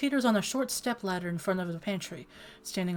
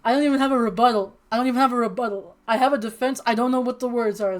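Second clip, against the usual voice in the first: flustered protest; 4 semitones higher, 8 dB louder than usual. Real, not acted. Flustered protest after Clem line.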